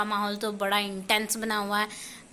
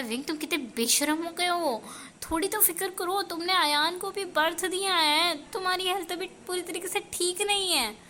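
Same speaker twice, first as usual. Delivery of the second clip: scolding Lanzhan; 5 semitones higher than usual. Acted. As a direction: chide him gently from above, a touch raised. Lanzhan's voice in story.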